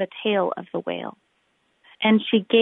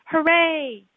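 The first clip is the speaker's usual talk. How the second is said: cheer; 8 semitones higher than usual. Acted. The villagers cheer as the whale floats away, high cheer. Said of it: "villagers shouting".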